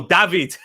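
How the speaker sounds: DAVID said the foreign way, "Dah-veed"; exotic pronunciation. Shown as a demonstration. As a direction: say David with an "ah", not "ay". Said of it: "if you say it that way he sounds more exotic".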